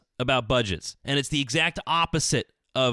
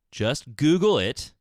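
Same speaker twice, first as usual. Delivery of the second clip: annoying know-it-all; 4 dB louder, slower than usual. Shown as a demonstration. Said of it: "it sounds so annoying".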